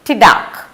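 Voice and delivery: "tidak" said with a clear t and final k; crisp two-syllable "tidak". Shown as a demonstration. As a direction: say "tidak" as the Malay no. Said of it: "they say".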